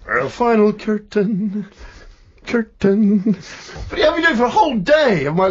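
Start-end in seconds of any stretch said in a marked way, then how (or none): 0.1-3.4 curtain with a hard, clear T, slowly; crisp crooner's T. Retold or imitated. Crooning the final curtain like an old singer's tape. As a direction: spit out the T in curtain. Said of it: "he really goes with the T's".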